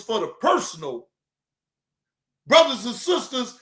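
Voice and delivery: lightly voiced preacher begging for donations; a hint of a sermon pitch for money; mock pulpit plea to brothers and sisters; mimicking preacher plea.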